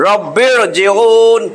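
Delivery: রব্বির জিউন very slow, r thick and heavy. Shown as a demonstration. Teacher stressing the heavy r for the student, very slow. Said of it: "এটারে মোটা করতে হবে".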